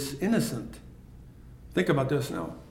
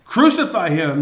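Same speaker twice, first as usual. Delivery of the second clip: raised, louder mock crowd cry; crowd's cry; 4 dB louder than usual. Preacher voices the crowd demanding crucifixion, raised and louder. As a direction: call it out like the crowd. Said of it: "they cried out".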